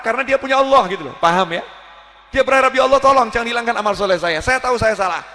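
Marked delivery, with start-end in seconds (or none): 2.3-5.2 pleading prayer. Retold or imitated. Fervent prayer voiced.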